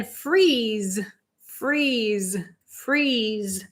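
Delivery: freeze with a long held ee, freeez. Shown as a demonstration. Teacher stretching freeze to show the long E. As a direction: hold the ee in freeze as one long sound. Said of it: "it's a long E".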